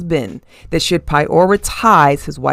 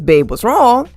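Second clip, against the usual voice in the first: caring husband; 6 semitones higher, 4 dB louder than usual. Retold or imitated. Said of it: "when the man says".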